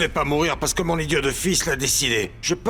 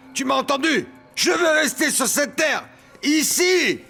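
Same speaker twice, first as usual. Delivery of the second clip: defiant shout; 3 semitones higher than usual. Acted. Defies death in a nightmare.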